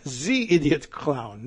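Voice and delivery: slow mock French accent; halting, badly faked French accent. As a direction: attempt a clumsy French accent, drawn out. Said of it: "I can't do a French accent".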